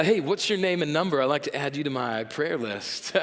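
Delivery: cheesy pickup-line voice. Pretend. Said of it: "I do this voice when I talk like this".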